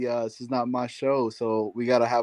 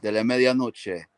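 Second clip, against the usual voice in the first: Spanish sultry narrator. Pretend. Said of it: "what you say in a sexy voice".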